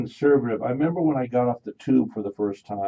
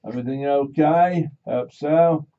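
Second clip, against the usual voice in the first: put-on Australian accent; 4 semitones higher, 5 dB louder than usual. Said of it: "I don't think I'd try an Australian accent".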